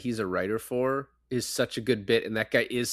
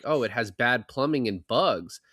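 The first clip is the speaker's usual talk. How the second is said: plain, matter-of-fact quote; quoting her casually. Retold or imitated. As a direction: toss off the reason lightly. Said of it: "and she's like".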